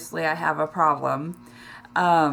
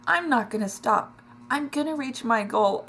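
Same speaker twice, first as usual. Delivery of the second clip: tearful determination; 4 semitones higher than usual. Real, not acted. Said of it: "This is an emotional one this week".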